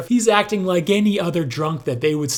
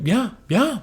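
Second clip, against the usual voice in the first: mocking imitation; 5 semitones higher, 3 dB quieter than usual. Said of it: "how many times he said".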